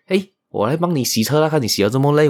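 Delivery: put-on a small boy bursting to help; mock excited little son; excited child.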